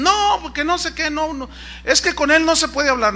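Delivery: wife dodging, complaining about her husband. Retold or imitated.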